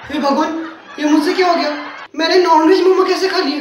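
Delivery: hammed-up horror with laughs; laughing mock despair. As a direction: lament your sin through laughter. Vegetarian realises he ate chicken.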